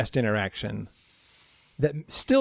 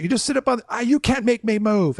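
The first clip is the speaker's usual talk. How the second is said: much higher, petulant mock whine; defiant guest; 8 semitones higher than usual. Guest refusing to move from the street, high petulant whine. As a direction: pout it like a stubborn kid. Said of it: "She's like".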